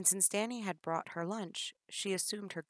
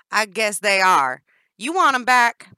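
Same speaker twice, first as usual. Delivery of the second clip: giggling; 5 semitones higher, 19 dB louder than usual. Acted. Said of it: "Danny giggled".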